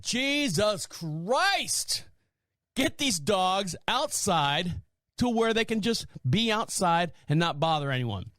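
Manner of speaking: slow exasperated outburst, pitch up. Retold or imitated. Telling aunt to take the yelping dogs outside, exasperated. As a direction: drag out Jesus Christ in disbelief. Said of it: "That's why I said".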